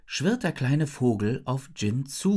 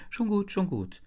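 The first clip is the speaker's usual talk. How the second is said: higher, mildly appeasing cut-in; interrupting; 7 semitones higher than usual. A narrator's reading. Isabel stops Jin's torrent of words, interrupting. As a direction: break into the flow to stop it. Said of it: "unterbreche ich ihren Redeschwall".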